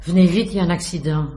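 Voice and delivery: a mild mock yell, urgent at first; retold cry for help. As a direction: echo his panicked call without really shouting. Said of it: "voilà ce monsieur qui arrive en criant".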